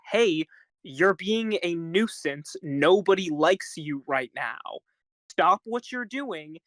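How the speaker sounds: be straight with them, mildly stern. Acted. Parent correcting a misbehaving kid, mildly stern. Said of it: "be stern with them, just be, be straight with 'em".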